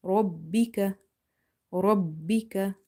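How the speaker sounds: Rabbika with a full-mouth ra and light kaf; slow Rabbika, heavy ra, doubled b. Shown as a demonstration. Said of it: "but ra is heavy".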